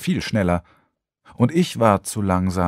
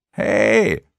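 hey called again, louder and pushier; second, louder call; 4 dB louder than usual. A narrator's reading. Vanessa calls Lukas again, louder insistent call. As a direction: call hey a second time with more force. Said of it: "rief sie ein zweites Mal".

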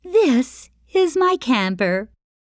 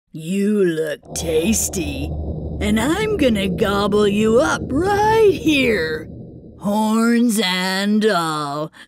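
troll voice. Acted. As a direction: draw out the threat as the troll. Troll threatens.

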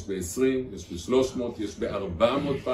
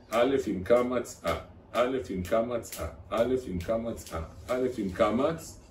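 slow, even alef-bet chant; patient teacher's repeated recitation; rote alphabet drill; slower than usual. Shown as a demonstration. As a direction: drone the letters over and over, slowly.

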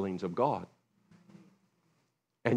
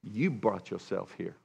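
accusing friend; 3 semitones lower, 6 dB quieter than usual. Retold or imitated. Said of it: "you could come and say".

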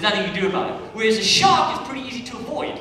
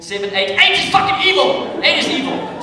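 mock outraged yell; 7 semitones higher, 8 dB louder than usual. Committee member counting spider legs, mock outraged shout. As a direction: pitch jumps up into a loud shocked yell at the count of eight.

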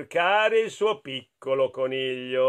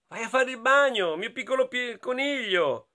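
lightly voiced big sister; 7 semitones higher than usual. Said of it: "sua sorella grande gli diceva".

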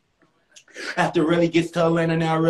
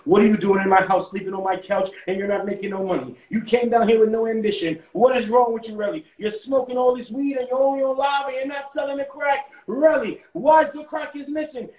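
mild scolding that climbs higher; mad boss; 4 semitones higher than usual. Acted. Boss scolding Relly for not selling the crack, mad. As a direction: tell him off with mounting exasperation. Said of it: "His boss is getting mad".

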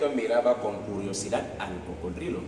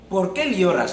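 high bird voice; 8 semitones higher, 7 dB louder than usual. Acted. Bird asks crocodile.

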